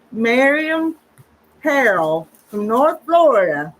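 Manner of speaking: talking with a mouthful; words round a bite of food; mouth full. Real, not acted. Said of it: "I'm gonna talk with my mouth full".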